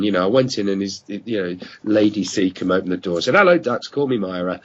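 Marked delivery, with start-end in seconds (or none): 3.3-4.6 a light, half-hearted Welsh auntie greeting; mild Welsh accent. Retold or imitated. Host recalling Lady Seacombe at the door, faint Welsh accent. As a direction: Welsh lilt hinted on hello, barely held. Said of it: "I can't do the Welsh accent".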